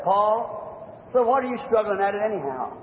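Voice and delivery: gentle, kindly boss speaking softly; a lightly voiced kind master. The boss gently asks Paul why he struggles, kindly. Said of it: "speak with a kind voice".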